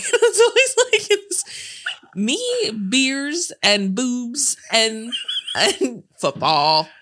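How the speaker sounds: put-on high girly voice, falling to slow; lightly voiced quirky pick-me girl. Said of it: "We say it in that voice though".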